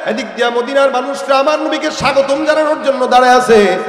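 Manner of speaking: loud, rousing sermon delivery; full-force preaching. Real, not acted. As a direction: preach it out, stretching the line endings. (জোরালো ওয়াজের সুরে)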